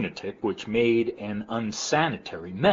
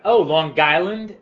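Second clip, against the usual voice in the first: mocking question; 8 semitones higher, 9 dB louder, slower than usual. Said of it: "everybody would do that".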